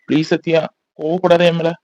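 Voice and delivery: soft pleading. Acted. Husband pleading softly.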